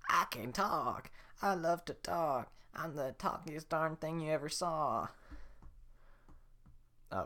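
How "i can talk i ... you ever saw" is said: higher, slow put-on donkey; old woman faking a donkey voice; hammed-up ventriloquist donkey; fake donkey voice. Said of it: "pretends to be donkey".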